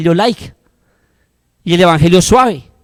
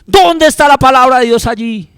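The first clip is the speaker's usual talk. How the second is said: slow drawn-out Caramba, louder and higher; raised, stretched cry of dismay; indignant exclamation; 6 semitones higher, 4 dB louder, slower than usual. Retold or imitated. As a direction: exclaim in mock outrage. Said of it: "cuando digo".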